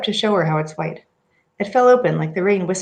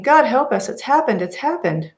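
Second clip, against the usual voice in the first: retold scream; 5 semitones higher than usual. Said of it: "She was screaming".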